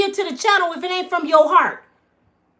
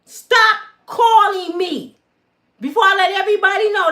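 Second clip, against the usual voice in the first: angry warning; 4 semitones higher than usual. Real, not acted.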